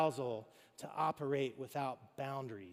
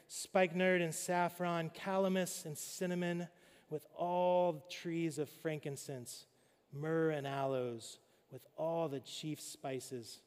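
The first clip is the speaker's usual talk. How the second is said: scripture reading. Acted. Pastor reads the love poem to the congregation, measured and poetic. Reads Song of Solomon aloud.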